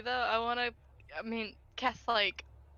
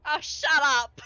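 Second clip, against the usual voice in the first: loud, irritated outburst; annoyed heckle back; 4 semitones higher, 6 dB louder, slower than usual. Acted. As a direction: shout back at a booing crowd. Heckling back at booing crowd.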